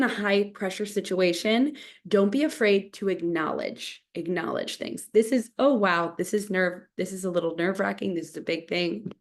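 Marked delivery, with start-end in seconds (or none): 5.1-9.1 nervous voice, a little shaky. Shown as a demonstration. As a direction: act out a nervous speaker whose voice wobbles. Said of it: "my voice is shaking a bit".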